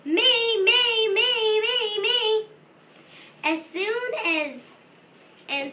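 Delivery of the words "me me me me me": high, loud eager shouts; shouted me. Acted. Froggy eagerly shouting to go first, high and loud. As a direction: beg to be picked, loudly. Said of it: "Froggy shouted".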